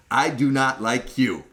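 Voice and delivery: slow, emphatic telling-off; stern retold rebuke. Lady confronting Sam at the testing center, stern rebuke.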